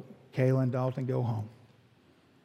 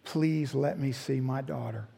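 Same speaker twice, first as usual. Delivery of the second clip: praying; 5 dB quieter, slower than usual. Retold or imitated. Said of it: "I was on my knees praying".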